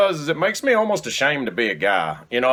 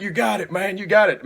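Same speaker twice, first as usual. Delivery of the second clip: gym bro hype; 8 semitones higher than usual. Retold or imitated. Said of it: "this guy's like".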